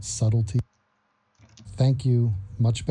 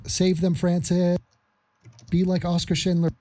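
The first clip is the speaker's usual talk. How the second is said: put-on failed Scottish accent; 4 semitones higher than usual. Urging Francis on in a failed Scottish accent. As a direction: urge him on in a bad Scottish accent. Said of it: "I tried a Scottish accent".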